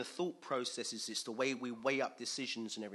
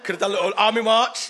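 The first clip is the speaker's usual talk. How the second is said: laughing; 9 semitones higher, 18 dB louder, faster than usual. Real, not acted.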